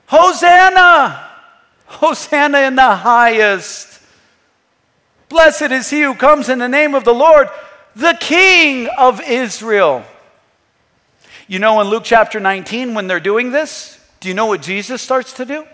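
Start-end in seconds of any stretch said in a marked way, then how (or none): 0.1-10.0 loud, drawn-out acclamation; slow, raised cry of praise, first word highest; crowd's proclamation. Acted. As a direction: proclaim it like a multitude hailing a king. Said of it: "look at the proclamation of the multitudes".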